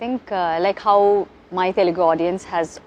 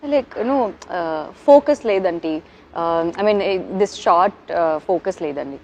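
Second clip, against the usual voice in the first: imitating scared crew member; 4 semitones lower than usual. Focus puller reporting a bad shot to actress, imitated scared faltering. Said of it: "shivering like this".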